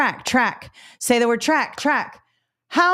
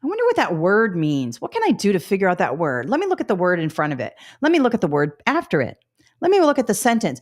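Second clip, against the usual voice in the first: think aloud. Retold or imitated. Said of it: "she goes".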